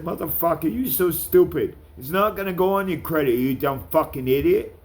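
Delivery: hammed-up furious retelling; retold angry rant. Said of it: "I said".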